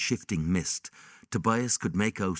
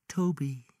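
put-on child calling; 8 semitones higher than usual. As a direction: call his name gently. Child calls again.

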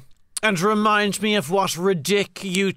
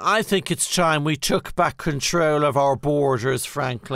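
political attack ad; 4 semitones lower than usual. Pretend. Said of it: "sounding like an attack ad for Brexit".

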